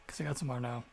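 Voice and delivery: talking with a dry mouth; words sticking from a dry mouth. Real, not acted. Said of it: "I can't talk. My mouth is so dry".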